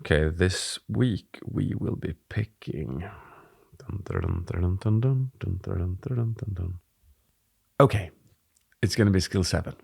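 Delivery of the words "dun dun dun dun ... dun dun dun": mock drumroll. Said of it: "drumroll before revealing skill".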